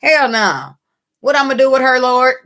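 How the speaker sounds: high, loud startled protest; mock alarmed cry; shocked outburst. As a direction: react like you can't believe it. Voicing a shocked person.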